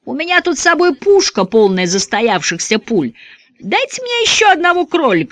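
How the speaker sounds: high, cocky gunslinger taunting. Acted. Gunman taunts the gang he wants another rabbit, high cocky. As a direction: tease them like a gunslinger enjoying himself. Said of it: "gunman taunts the gang".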